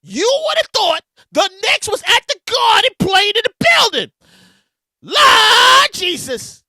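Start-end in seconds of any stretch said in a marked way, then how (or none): 5.0-6.6 drawn-out exclamation. Real, not acted.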